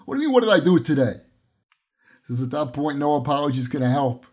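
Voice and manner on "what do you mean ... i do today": loud, outraged echo of the question; indignant wife. Retold or imitated. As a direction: throw the question back, louder and offended.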